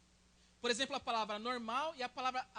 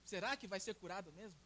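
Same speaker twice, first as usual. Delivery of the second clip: much softer, lower, a doubting murmur; doubtful murmur; 5 semitones lower, 9 dB quieter than usual. Retold or imitated. Churchgoer privately doubting the pastor's healing, quietly skeptical. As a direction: hush it, voicing quiet disbelief. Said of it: "a gente olha e fala assim".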